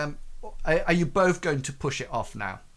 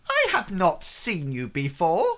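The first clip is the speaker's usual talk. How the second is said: merchant sizing up a stranger, deliberately worded; suspicious merchant; 2 semitones higher than usual. Acted. Merchant eyeing an unknown crew member, suspicious. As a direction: query it warily as the merchant. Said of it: "looks at you and he says".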